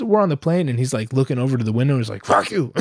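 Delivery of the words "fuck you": higher-pitched blurt, mimicking a seatmate; mimicked tic, let loose; imitated verbal tic. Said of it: "now I could really let loose".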